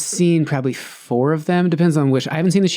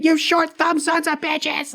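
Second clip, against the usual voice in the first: very high, slow cartoon rant; a high-pitched hammed-up mob chant; mock mob rant; slower than usual. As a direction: bellow it like a silly angry mob member. Mob marching, ranting.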